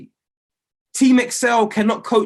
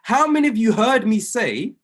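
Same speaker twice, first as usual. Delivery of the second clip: higher-pitched rallying question; getting excited; 4 semitones higher than usual. Real, not acted. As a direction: excitedly call on the listeners. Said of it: "I'm getting excited".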